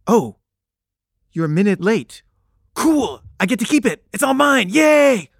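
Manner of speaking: high, gloating, ending in a shout of glee; mock gleeful coworker. Coworker Suzanne gloating at narrator about the room, high mock glee. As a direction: crow over winning the room, squealing yay. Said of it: "she's like".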